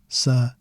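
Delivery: "saída" slowly as sa, ee, da; three syllables. Shown as a demonstration. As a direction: pause between each syllable of "saída". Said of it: "three syllables".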